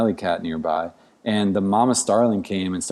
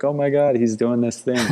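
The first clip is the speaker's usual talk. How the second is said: higher-pitched retold parental excitement; excited proud parent; 4 semitones higher than usual. Doting bird raiser reacting to his starling's firsts, excited. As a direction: gush like a thrilled new parent, lightly.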